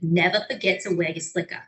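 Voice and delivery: R-dropping New York accent; light New York accent, no Rs. Shown as a demonstration. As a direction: drop the final Rs like a New Yorker. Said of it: "and New York".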